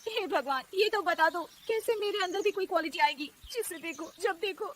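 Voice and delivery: high-pitched whine breaking into sobs; tearful lament. Acted. Daughter-in-law pleads with God on the roof, tearful. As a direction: complain to God, close to crying. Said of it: "वो रोने लगती है".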